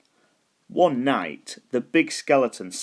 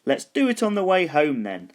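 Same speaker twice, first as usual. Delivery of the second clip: little skeleton voice; 6 semitones higher than usual. A narrator's reading. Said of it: "said the little skeleton".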